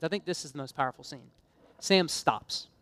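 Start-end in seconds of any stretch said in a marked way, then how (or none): 0.0-1.3 softer and lower, slowing on the thought; hushed repeat. Shown as a demonstration. Preacher to congregation, repeating it softly and reverently. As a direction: drop the voice to let it land. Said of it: "Not the war scenes".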